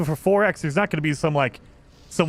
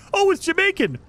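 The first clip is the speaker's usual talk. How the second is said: very high, mocking voice of a coworker; high-pitched mock reply; imitating coworker; 13 semitones higher than usual. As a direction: mimic her oblivious answer way up high.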